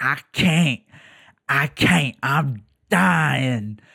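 put-on loud complaining voice. Speaker retelling what Larry kept saying, imitating Larry's loud complaining. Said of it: "he would express very loudly".

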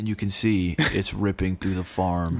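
low, ominous, scary documentary narrator voice. Retelling a tornado video's narration, imitating a scary narrator voice. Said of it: "That's a good impression".

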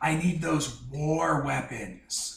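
very slow, drawn-out, loud stage whisper. Voicing a character leaving the party, asking for war weapons: loud whisper. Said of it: "he's whispering loudly".

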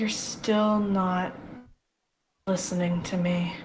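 low, darkly amused, chuckling through the words. Narrating the scene, Jude answers Aslan's question with a dark chuckle. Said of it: "chuckles darkly and is like".

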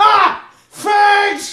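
squeaky, very high-pitched cartoon voice. Retelling a cartoon scene and quoting the character Cartman: imitating Cartman. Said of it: "And then Cartman goes".

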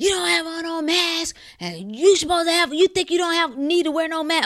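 woman's high-pitched yelling voice. Retelling a stranger yelling from her car window: imitating a woman yelling. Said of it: "she was in her car yelling with the window down".

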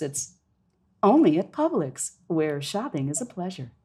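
commercial announcer voice with lots of lift. Demonstrating a store slogan, the speaker uses an announcer voice with lift. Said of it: "if you want to do more of an announce kind of a thing, that's the voice you're relying on, and then a lot of lift".

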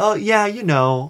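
put-on pleasant Canadian lilt, high and slow. Describing a parody stormtrooper: imitating a pleasant Canadian-sounding stormtrooper. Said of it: "talking in this kind of, like, pleasant".

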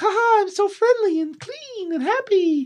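very high, cheery cartoon voice, all fake cheer. Explaining a dislike of a game character, mocking him in a mocking Mario voice. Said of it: "He's like Mickey Mouse".

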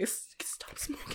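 soft, whispered voice.

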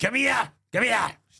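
very high football-hooligan-style yelling. Retelling how a football hooligan with a lead shouted. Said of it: "Starts shouting".

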